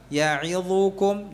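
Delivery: Ya'idzukum said slowly and clearly; slow demo. Shown as a demonstration. Teacher reading Ya'idzukum slowly to the class. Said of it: "kalau kita bacanya apa".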